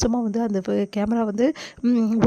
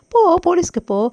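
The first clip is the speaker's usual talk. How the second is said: high, loud shout of defiance; taunting yell at the victim; angry shout; 7 semitones higher, 7 dB louder than usual. Acted. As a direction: bark it out daring her to go. Blackmailer angrily defies Abi's threat.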